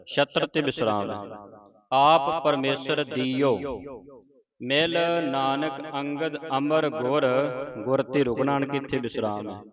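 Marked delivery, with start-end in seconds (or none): 1.9-7.2 slow, measured verse recitation; slow devotional reading; scripture recitation. Shown as a demonstration. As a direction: recite with long drawn-out vowels.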